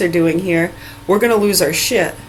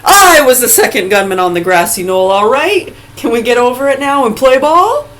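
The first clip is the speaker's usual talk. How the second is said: loud, mocking, fed-up shout; loud sarcastic outburst; 4 semitones higher, 5 dB louder than usual. Real, not acted. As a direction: yell it out in mock confession. Sarcastic mock confession, shouted.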